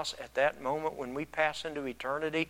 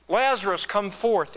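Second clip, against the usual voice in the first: raised call, higher and louder on the name; 5 semitones higher, 5 dB louder than usual. Acted. Jesus calling a dead man out, loud voice. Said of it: "Jesus called in a loud voice".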